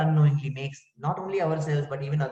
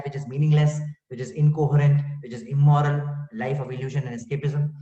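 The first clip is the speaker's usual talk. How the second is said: forceful rhetorical build; 6 dB louder than usual. Real, not acted. Preacher building a rhetorical list.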